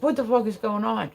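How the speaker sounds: mock yell at his son; imitated yelling. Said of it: "yelling at the son".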